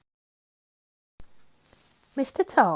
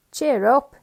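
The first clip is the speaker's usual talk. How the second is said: louder call; 4 semitones higher, 8 dB louder than usual. Acted. Mister Nosey greets.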